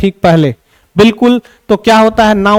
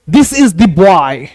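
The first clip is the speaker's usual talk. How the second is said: put-on "This is the boy" drawn out very slowly; very slow example; much slower than usual. Shown as a demonstration. Teacher reading the example very slowly. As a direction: read it slowly, word by word. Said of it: "जैसे जोर देंगे".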